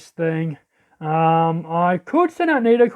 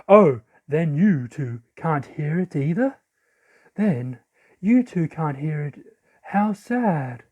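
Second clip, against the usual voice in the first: lightly voiced solemn character, a bit lower; subdued game character; 4 semitones lower, slower than usual.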